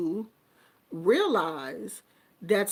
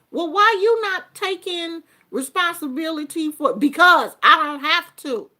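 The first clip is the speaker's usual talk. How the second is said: louder, higher scolding comeback; dismissive parent; 6 semitones higher, 7 dB louder than usual. Acted. Parent refusing blame to the child, loud and curt. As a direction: brush the question off like a proud parent. Acted family argument, parent answers.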